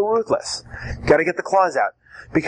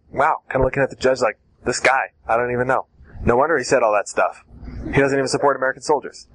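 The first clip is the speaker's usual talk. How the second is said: mock shock; 4 semitones lower than usual. Shown as a demonstration. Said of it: "have this shock".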